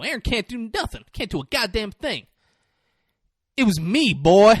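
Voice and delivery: sneer, then claim it proudly; scornful boast. Retold or imitated. Retold alter ego boasts of killing.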